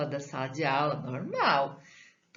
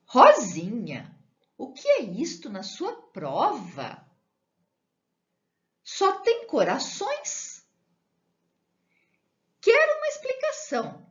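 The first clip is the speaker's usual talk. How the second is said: a scolding teacher, rising higher and louder; stern teacher; 8 semitones higher, 5 dB louder than usual. Acted. Teacher scolds Rosinha over hearts on her test, stern and rising.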